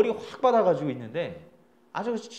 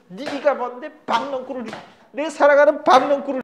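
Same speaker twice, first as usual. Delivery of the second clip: loud, higher-pitched acted outburst at a pest; venting anger; 7 semitones higher, 9 dB louder than usual. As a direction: lash out as Jonah, building to a louder peak. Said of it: "벌레한테 화풀이를 그냥 다 한 거죠".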